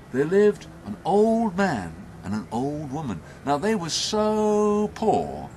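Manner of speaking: animated storyteller with swooping pitch; story narration. A narrator's reading. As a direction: draw out key words for the listeners. Tells a story to audience.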